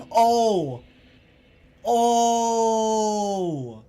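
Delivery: long high wailing oh; shocked laughter. Real, not acted. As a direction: howl with embarrassed laughter. Realizes misreading, laughs.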